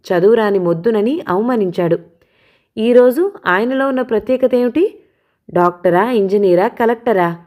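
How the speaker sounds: hard, pressing delivery, words leaned on; emphatic. A narrator's reading. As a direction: drive every point home defiantly. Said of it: "అన్నాను ఒత్తి పలుకుతూ".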